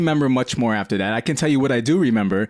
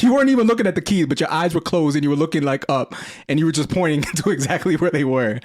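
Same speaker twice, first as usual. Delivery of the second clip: amazed brother; 4 semitones higher than usual. Retold or imitated. Brother telling drunk sibling he found the keys, amazed and fast. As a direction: rush it out, amazed. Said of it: "He's like".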